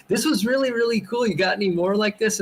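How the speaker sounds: bright, high, eager question to the clerk; eager fan. Retold or imitated. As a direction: gush over the comic like a thrilled fan. Excited customer at comic counter.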